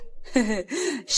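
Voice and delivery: short sarcastic chuckle; mocking laugh. A narrator's reading. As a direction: scoff with a laugh. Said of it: "محمد بسخرية". (ضحكة سخرية)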